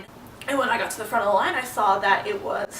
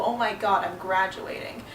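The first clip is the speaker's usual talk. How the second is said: understated dread, softening toward the end; mildly daunted. Retold or imitated. Retelling how graduation turned daunting, mildly overwhelmed. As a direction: let it sink in, a touch overwhelmed. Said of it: "became a bit more daunting".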